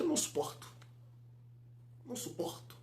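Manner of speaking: very soft, under the breath; exasperated near-whisper; hushed exasperation. Real, not acted. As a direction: say it barely audibly, fed up. Hushed exasperation at rival commentators.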